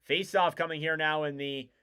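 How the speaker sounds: hockey call that peaks on the shot, then settles; live play-by-play. Real, not acted. Commentator resumes the first period after the tribute, live play-by-play. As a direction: track each pass and punch up the shot.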